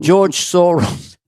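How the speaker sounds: slow, drawn-out mobster mumble; a lightly voiced Godfather enforcer; Luca Brasi impression. Thanking the don slowly, a hint of Luca Brasi. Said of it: "I wasn't my best Luca Brasi".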